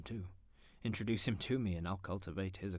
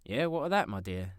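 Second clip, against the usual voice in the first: breezy nephew; 7 dB louder than usual. Acted. Nephew answers his wife.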